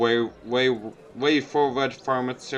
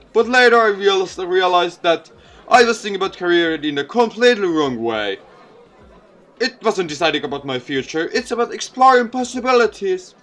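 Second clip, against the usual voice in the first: a lightly voiced folksy politician, a bit higher and louder; charming mayor; 4 semitones higher, 6 dB louder than usual. Mayor joking with the student crowd, lightly voiced folksy politician. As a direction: work the crowd with easy jokes.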